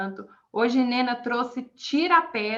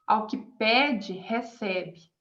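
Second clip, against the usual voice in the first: slow, heartfelt plea to the Lord, swelling louder on a tua palavra; earnest prayer; 4 dB louder, slower than usual. Shown as a demonstration. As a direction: pray it earnestly, leaning into the word.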